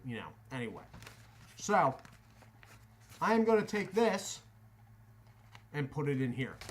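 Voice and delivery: talking around a wad of chew; chew in mouth. Real, not acted. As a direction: mouth full of tobacco. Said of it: "Got rid of that chew in my mouth".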